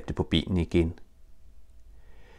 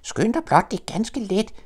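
very high joey voice piping up; squeak. Acted. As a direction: pipe it eagerly, tiny and high. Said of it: "pep kængubarnet".

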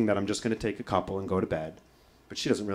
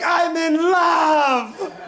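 high, loud, drawn-out wail; melodramatic scream; 8 dB louder, much slower than usual. Retold or imitated. Son screaming back at mom, melodramatic wail. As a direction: scream it like a tragic declaration of passion.

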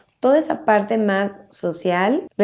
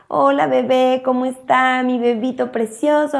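"Hola, bebé" said a little higher in cooing parent talk; baby talk; 4 semitones higher than usual. Shown as a demonstration. Parent chatting to a baby, mild higher baby talk. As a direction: coo to the baby, lightly lifted. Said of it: "le empiezas a hablar y a platicar".

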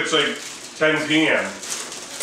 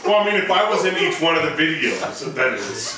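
talking through laughter; giggly words after a laugh; 3 semitones higher than usual. Real, not acted.

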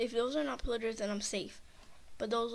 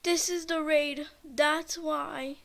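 alarmed realization; 3 semitones higher, 6 dB louder, slower than usual. Real, not acted. Realizes the raid.

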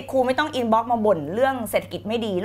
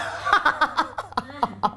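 real amused laughter; 3 semitones higher, 4 dB quieter than usual. Real, not acted. Reacting to a viewer's comment.

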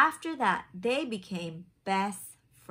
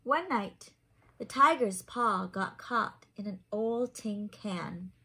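lively picture-book narration; reading to children; 4 dB louder than usual. A narrator's reading. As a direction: read it like a bedtime story for little ones. Reads picture book aloud.

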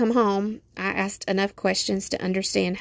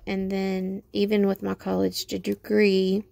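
slightly slurred around a retainer; retainer in mouth. Real, not acted. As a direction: talk with a retainer in. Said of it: "I can't talk, I got my retainer in".

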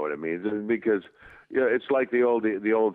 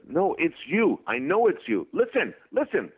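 higher-pitched retold insistence; insistent; 11 semitones higher than usual. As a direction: press the point, mimicking her. Retold insistent argument, high voice.

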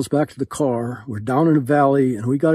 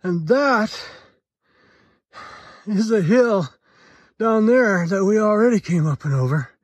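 winded, higher-pitched hiker voice; breathing hard; 7 semitones higher than usual. Real, not acted. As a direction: talk through heavy breaths after an uphill climb. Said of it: "you wonder why I'm breathing hard".

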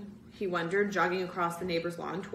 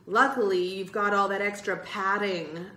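louder playful jab; teasing; 6 dB louder than usual. Acted. Bird ribbing Michael about his weight, teasing. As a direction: needle him with a grin. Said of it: "Bird teased".

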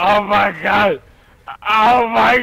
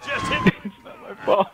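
laughing protest; 5 dB quieter than usual. Real, not acted. Laughing denial after crash.

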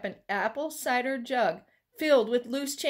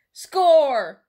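a loud burst of triumph; loud, gleeful kid's cheer; excited cry; 4 semitones higher, 11 dB louder than usual. A narrator's reading. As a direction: shout it, you've struck gold. Kyle finds the coin jug.

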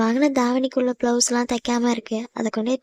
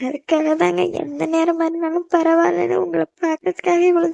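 tearful pleading; 3 semitones higher than usual. Acted. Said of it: "அழாத".

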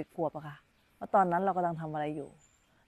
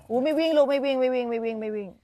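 raised, higher call across the yard; 5 semitones higher, 5 dB louder than usual. Real, not acted. Calling kids to stop running.

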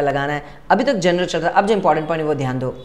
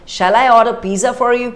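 slow example; 5 semitones higher, 5 dB louder, much slower than usual. Shown as a demonstration. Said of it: "For example".

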